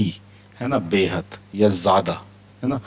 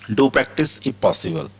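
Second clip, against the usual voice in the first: slow, deliberate words; slow model reading; 3 semitones higher, much slower than usual. Shown as a demonstration. Teacher reads the example slowly to learners. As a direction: say it slowly for students to repeat. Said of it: "teacher models example sentence".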